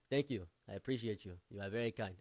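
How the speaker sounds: lightly put-on African accent; imitated African friend. African friend thanking him at IHOP, imitated African accent. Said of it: "My African friend explained to me".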